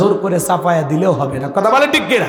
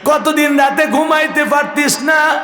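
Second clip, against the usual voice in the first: keening, melodic plea of a wronged mother; tearful mother; 6 semitones higher than usual. Retold or imitated. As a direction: wail it high, easing down as the reproach goes on. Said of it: "কাঁদে আর বলে". (কান্নাভেজা সুরে মায়ের আর্তি)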